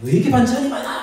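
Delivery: high, quick comic grumble; mock irritation. Preacher imitates churchgoer griping at lunch, mock-angry. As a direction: play up a petty flare-up of temper. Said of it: "이렇게 화가 나 있는 거죠".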